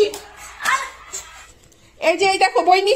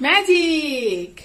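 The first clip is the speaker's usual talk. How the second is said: ম্যাজিক stretched very slowly and falling; drawn-out magic word; much slower than usual. Shown as a demonstration. Mother repeats the slow magic word. (ম্যাজিক শব্দটা খুব ধীরে টেনে, জাদুকরের মতো)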